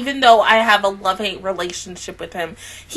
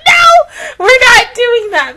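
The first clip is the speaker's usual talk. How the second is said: mock shout; 12 semitones higher, 6 dB louder, slower than usual. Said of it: "Y'all literally was like".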